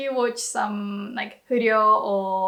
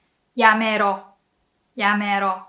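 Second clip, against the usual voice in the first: rude order; 3 semitones lower than usual. Shown as a demonstration. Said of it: "the more rude way".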